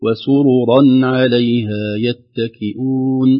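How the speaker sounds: وسررا عليها يتكئون slowly, with heavy ra. Shown as a demonstration. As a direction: stretch the line keeping the ra of وسررا heavy. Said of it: "تفخيم الرأين".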